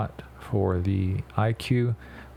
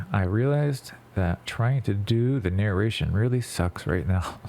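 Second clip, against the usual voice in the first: stuffy post-surgery nasal voice; talking with a splinted, blocked nose; nose packed with gauze. Real, not acted. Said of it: "I just had surgery ... nose surgery".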